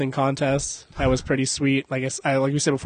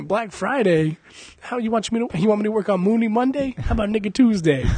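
lightly voiced character; 7 semitones higher than usual. Acting out a quoted character.

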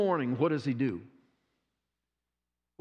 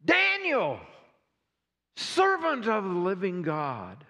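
anguished king calling. Acted. King calling into the lions' den, anguished. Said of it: "called to Daniel in an anguished voice".

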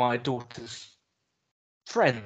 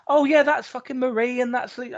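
wife's voice; 10 semitones higher, 3 dB louder than usual. Retold or imitated. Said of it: "she's like".

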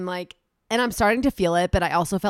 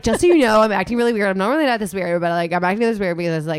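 loud, rushed nervous confession; frantic confession; 6 dB louder than usual. Retold or imitated. Woman telling friends she's on shrooms, loud nervous confession. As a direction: overshare to friends in a panic. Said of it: "I was like".

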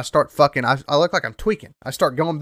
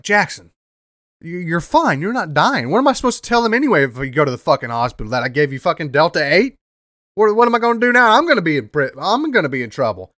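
a hint of a flustered dad, higher and faster; panicky friend's dad; 3 semitones higher, faster than usual. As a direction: fret about getting in trouble. Tony panicking about hospital.

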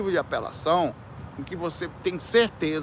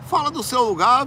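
indignant outburst; 10 semitones higher than usual. Real, not acted. Ranting at churches that badmouth others, in an indignant outburst. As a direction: demand it, fed up.

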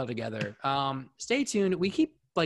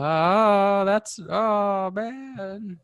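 put-on voice; 9 semitones higher, 5 dB louder, much slower than usual. Reacting dramatically.

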